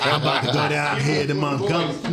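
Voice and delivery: lightly voiced friend, slowed down a touch; a hint of the friend's voice; mocking friend's talk. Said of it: "why everybody be trying to talk like this".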